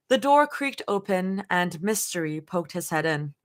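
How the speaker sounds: measured storytelling read-aloud; lightly performed audiobook narration; story narration. A narrator's reading. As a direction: narrate in short, deliberate phrases. Reads fan fiction aloud.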